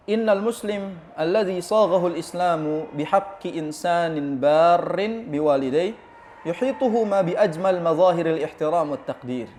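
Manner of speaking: slow, measured Arabic reading; measured scholarly recitation of a book passage; reading Arabic text aloud. Acted. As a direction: read the Arabic out slowly, drawing out the long vowels. Reads the book's Arabic text.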